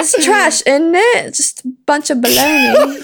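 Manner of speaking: laughing, put-on English bloke; mock English accent. The speaker trashing a game in a mock English accent. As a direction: sneer it like a cheeky Brit. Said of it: "worse than that accent".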